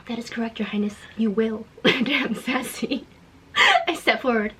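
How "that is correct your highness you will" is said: sly whisper. Acted. Villain's smug reply.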